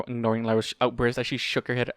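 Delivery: plain reading voice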